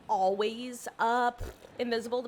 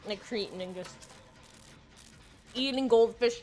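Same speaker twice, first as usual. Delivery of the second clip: mouth full. Real, not acted. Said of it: "talking with my mouth full".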